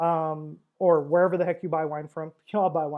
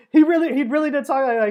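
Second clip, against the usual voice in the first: laughing; 7 semitones higher, 8 dB louder than usual. Real, not acted.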